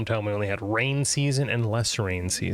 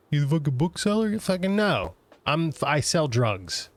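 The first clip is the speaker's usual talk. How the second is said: raised, hammed-up rude shopkeeper; mock indignant rant; 4 semitones higher than usual. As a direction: snap back like an insulted dealer. Voiced shopkeeper answering rudely.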